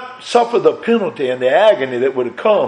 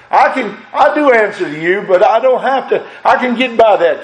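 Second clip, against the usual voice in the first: laughs through it, pitched higher; laughing confession; 6 semitones higher than usual. Real, not acted. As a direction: chuckle while owning up. Preacher laughing at own confession.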